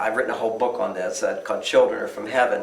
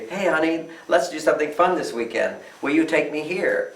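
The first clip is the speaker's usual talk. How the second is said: higher, lightly sweet asking; sweet request; 4 semitones higher than usual. Retold or imitated. Wife sweetly asks husband for an outing, higher and light. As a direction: coax him kindly toward a fun weekend. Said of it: "as opposed to".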